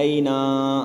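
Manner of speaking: اینا with نون dragged out; wrong long nun. Shown as a demonstration. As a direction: imitate children lengthening the نون. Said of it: "نون کو لمبا کر دیں". (نون کو غلط لمبا کر کے)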